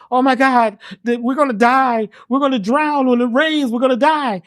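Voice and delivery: a mildly panicked frog voice. Acted. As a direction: wail that they are doomed, lightly. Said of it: "one of them starts saying".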